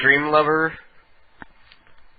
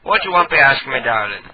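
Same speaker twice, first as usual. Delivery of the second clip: mock Jamaican psychic. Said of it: "it sounds Irish".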